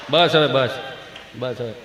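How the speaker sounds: very low, soft murmur; soothing father. Acted. Father calming crying child, low murmured hush. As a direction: hush the child under your voice.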